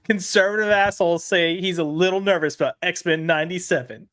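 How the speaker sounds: lightly put-on diarist voice; a hint of theatrical journaling; mock diary entry. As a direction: parody someone earnestly writing in a diary. Mock diary entry by article's writer.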